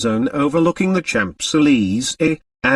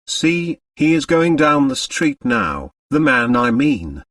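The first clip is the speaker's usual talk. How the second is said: exclamation; 2 semitones higher than usual. Acted. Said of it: "uttered an exclamation and called".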